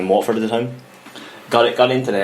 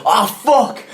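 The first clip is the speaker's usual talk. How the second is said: retold pained yelp; 10 semitones higher than usual. Retold sudden cramp in calf.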